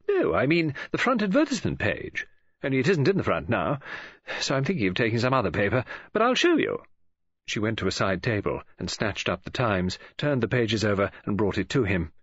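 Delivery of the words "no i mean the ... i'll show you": lightly voiced talkative woman, correcting him; Mrs Oliver, brisk. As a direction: chatter on with lively ups and downs.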